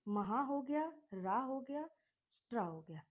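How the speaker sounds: महा, रा, स्ट्रा split into separate beats; teacher chunking the word; syllable by syllable. Shown as a demonstration. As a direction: build महाराष्ट्र piece by piece. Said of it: "एक में learn कर लो".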